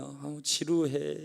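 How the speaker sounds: slow, mock-bored sigh of a teenager; imitating bored son. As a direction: drag it out like a bored kid. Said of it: "속마음이 읽히는 거야".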